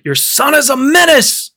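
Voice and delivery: high-pitched mock outburst; imitated shout. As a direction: exclaim it like an exasperated mother. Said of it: "she burst into a studio and shouted".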